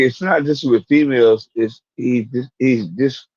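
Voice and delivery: stumbling over words with a swollen tongue. Real, not acted. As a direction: talk around a swollen tongue. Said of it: "my tongue is swollen".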